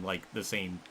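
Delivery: breathless, running out of air; gasping through a long rant; out of breath. Real, not acted. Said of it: "I'm running out of breath".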